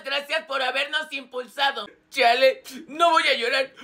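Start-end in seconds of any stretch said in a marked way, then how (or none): 2.1-3.7 loud, choked-up "I won't cry"; holding back tears. Acted. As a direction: fight off tears, hammed-up. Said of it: "Yo ya estoy llorando". (aguantando el llanto, exagerado)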